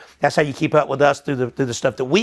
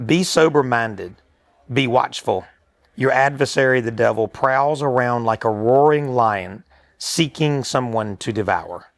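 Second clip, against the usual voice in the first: scripture reading; 3 semitones lower, slower than usual. Acted.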